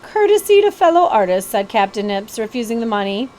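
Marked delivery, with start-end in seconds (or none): 0.0-1.5 showman voice. Acted. Captain Nips voiced.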